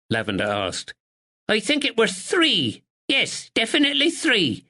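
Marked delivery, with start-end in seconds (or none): 1.5-4.6 put-on sharp old woman. A narrator's reading. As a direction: snap it out like a sharp sparrow.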